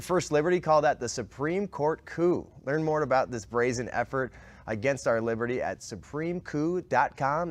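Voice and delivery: upbeat sponsor read, spelling out the URL. Acted. Host reading a sponsor spot to listeners, upbeat ad read. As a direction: read it like a live radio ad.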